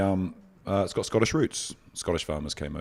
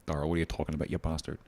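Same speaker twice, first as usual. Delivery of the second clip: imitating an Irish friend's accent; mock Irish scolding, not raised; 3 semitones lower, 5 dB quieter, faster than usual. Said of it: "friends in Ireland and they're going".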